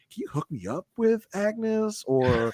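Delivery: a hint of a pleading suitor; mock rector. Mimicking the rector asking Ada for help, lightly voiced.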